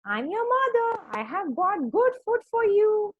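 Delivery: very high, coaxing fake sheep voice; wolf imitating mother sheep. A narrator's reading. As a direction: practise a sweet falsetto sheep voice. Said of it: "speak softly".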